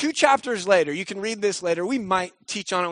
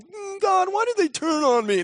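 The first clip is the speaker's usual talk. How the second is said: much higher moaning whine; mock whine; 12 semitones higher than usual. Imitating David wallowing, higher mock whine. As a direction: wallow in self-pity, hammed-up. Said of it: "I'm like".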